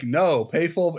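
flat robotic monotone; clipped synthetic announcement. Retold or imitated. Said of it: "it's like a robot voice".

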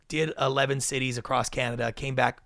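ordinary talk

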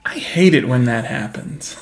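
slow, dry deadpan delivery. Retold or imitated. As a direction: say it totally unimpressed. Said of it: "deadpan kind of delivery".

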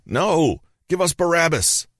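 high-pitched shouting demand; high storyteller's shout; narrated crowd shout. A narrator's reading. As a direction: call it out high like an angry crowd. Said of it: "the scribes started shouting".

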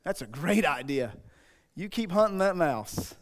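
low, soft sarcastic encouragement; mock praise. Preacher answering the rock-baiting mouse hunter, softly sarcastic. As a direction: humor a fool with quiet, dry approval.

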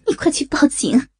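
mother's urgent plea, rising at the end; urgent cry. Acted. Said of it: "张玉玲大喊道".

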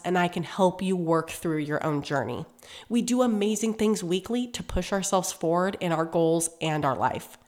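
stuffy nose from a cold; nasal sick voice. Real, not acted. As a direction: talk through a blocked nose. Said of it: "sorry for my nasally voice".

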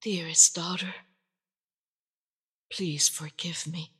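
soft whispered plea. A narrator's reading. Mother begging her daughter's forgiveness, whispered. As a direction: breathe it out as a whisper.

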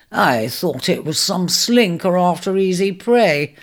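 slow, groaning and weary; wounded lion groaning slowly; weak groan. Acted. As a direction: drag the words out like an injured man. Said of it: "he groaned again".

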